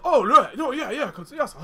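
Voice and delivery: high, flustered assent, half laughing; hasty agreement. Acted. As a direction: scramble to agree, comically unconvinced. Rowdy group hastily feigns piety.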